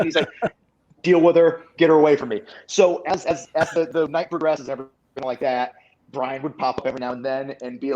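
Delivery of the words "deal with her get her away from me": louder, insistent order to deal with her; firm demand. Retold or imitated. Bryan orders Sami to deal with the woman, louder and insistent. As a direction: lean on it like a fed-up friend.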